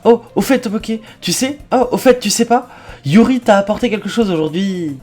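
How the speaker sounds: put-on eager club girl. Voices eager girl announcing Yuri's gift.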